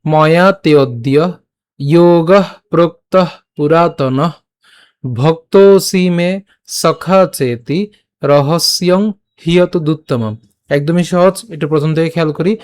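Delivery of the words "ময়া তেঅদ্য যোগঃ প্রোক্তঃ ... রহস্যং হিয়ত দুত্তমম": slow, deliberate Sanskrit shloka recitation; measured scripture reading, syllables held long; verse recitation. Shown as a demonstration. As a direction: recite phrase by phrase with long drawn vowels. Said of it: "আজকের শ্লোকটি হলো".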